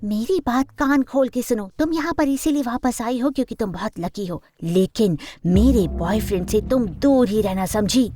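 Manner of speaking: furious rival laying down the law, pitch dropped; angry threat. Acted. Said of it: "गुस्से से पागल हो गई थी".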